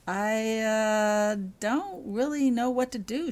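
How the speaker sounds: a young girl's hesitant confession, lightly voiced; confessed. A narrator's reading. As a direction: let it stumble out. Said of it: "she confessed".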